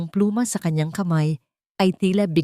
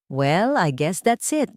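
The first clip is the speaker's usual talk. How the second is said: lawyer voice; slower than usual. Acted. Attorney Romero speaks.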